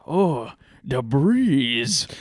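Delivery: slow, drawn-out mock Asian accent, lightly done; lazy imitated Asian accent, sighing at the cool air. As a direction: stretch out the breeze in a put-on Asian accent. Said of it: "he's strong Asian accent".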